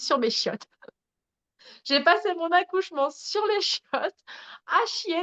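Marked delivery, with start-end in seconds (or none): 1.8-5.2 laughing. Real, not acted. Laughing at her own labour.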